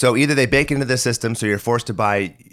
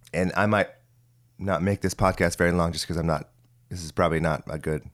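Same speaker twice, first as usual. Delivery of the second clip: husky, raspy sick voice; hoarse from a cold; 3 semitones lower, 5 dB quieter than usual. Real, not acted. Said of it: "I sound like Kathleen Turner".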